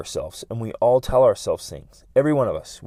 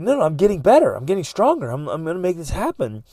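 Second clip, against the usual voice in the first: higher, louder insistence; determined self-talk; 5 semitones higher, 5 dB louder than usual. Acted. Talking oneself into getting better, determined and emphatic. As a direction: push back with rising conviction. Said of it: "But what it is, you're like".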